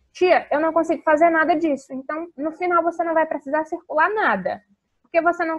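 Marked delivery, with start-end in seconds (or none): 0.1-1.9 loud mock child complaint; child complaining. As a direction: play a kid whining to the teacher. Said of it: "child's voice quoted". (criança reclamando com a tia, em tom de brincadeira)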